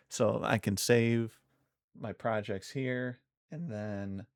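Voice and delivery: cracking voice mid-sentence. Real, not acted. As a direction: let the voice crack and break. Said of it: "why is my voice cracking so much?".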